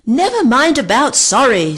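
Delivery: high loud scream. A narrator's reading. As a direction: scream impatiently. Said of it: "screamed Vic".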